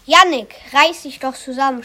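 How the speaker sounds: lauter scharfer Tadel, dann schnell; schimpfend. Acted. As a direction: schimpf wie eine Sportlehrerin. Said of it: "schimpfte Frau Bergmann". (Sportlehrerin schimpft laut mit Jannik)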